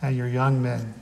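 measured, solemn reading of holy text; scripture reading. Acted. Pastor reading Joel to the congregation, solemn and measured. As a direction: read it out like scripture from the pulpit. Reads scripture before the sermon.

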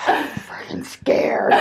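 low, breathless frightened whisper with a shaky laugh; scared whisper. Retold or imitated. Newcomer staring at the ground outside the meeting, scared whisper. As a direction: hush it like you're terrified.

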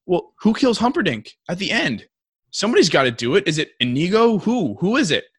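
high, insistent imitated boy; upset grandson. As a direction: act out a kid demanding answers. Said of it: "he gets mad at his grandpa".

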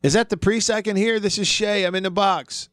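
a hint of an Irish accent from the grave; thick Irish accent. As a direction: imitate the Irishman calling from the coffin in an Irish accent. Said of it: "in that thick Irish accent".

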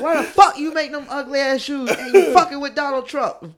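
high, loud, laughing through the words; cracking up while asking it; laughing disbelief. Retold or imitated. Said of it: "I was like".

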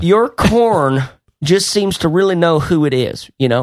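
lightly voiced old farmer; a hint of a folksy corn farmer. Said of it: "In a farmer voice".

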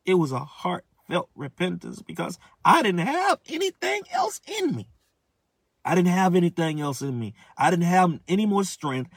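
cracking high with feeling; voice breaking. Real, not acted. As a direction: push through the tears as the voice cracks. Emotional climax of his testimony.

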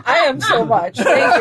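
put-on high giggly gushing girl; giddy party girl. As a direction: gush like a tipsy girl at a party. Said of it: "this is the drunk girl in the bathroom".

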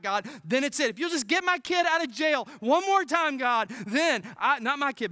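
a hammed-up bargaining prayer growing loud; mock desperate prayer. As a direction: beg God like a bargainer, building. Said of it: "we pray prayers like this".

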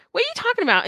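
high baffled disbelief. Retold or imitated. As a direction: ask it, utterly thrown. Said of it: "And I'm like".

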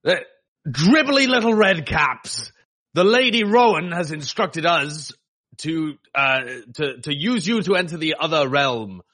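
booming, slow bard proclamation; grand rhythmic bard. Acted. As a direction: announce it like a pompous herald. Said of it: "announce in my most booming bard voice".

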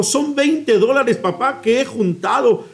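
put-on hopeful little boy. Preacher voices the boy offering his savings to his father, hopefully. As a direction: offer it shyly like a small boy.

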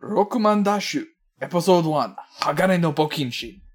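booming game title announcer; Japanese announcer voice. Pretend. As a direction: announce it like a fighting game intro. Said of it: "in your best Japanese announcer voice".

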